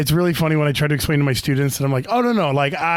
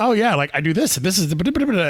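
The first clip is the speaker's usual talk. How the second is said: play-acted excited, gushing, joyful ramble with swooping pitch; 4 semitones higher than usual. Retelling how someone talks about a niche interest: imitating joyful rambling. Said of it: "really joyful autistic, um, verbal diarrhea".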